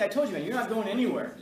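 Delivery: 1 firm retelling. Retold or imitated. Teacher scolding student, retold.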